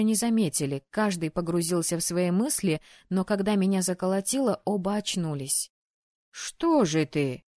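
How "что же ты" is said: slow, lower, coaxing voice; trying to encourage. A narrator's reading. Ali cheers up his trembling friend, gentle encouragement. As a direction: ease a nervous friend along. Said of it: "попытался подбодрить меня Али".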